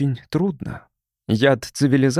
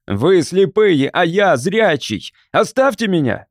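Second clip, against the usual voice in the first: high, loud, slow cracking shout; strained voice; 5 semitones higher, 3 dB louder, slower than usual. A narrator's reading. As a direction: command that breaks with strain. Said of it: "а прозвучал надорванно". (надорванный крик)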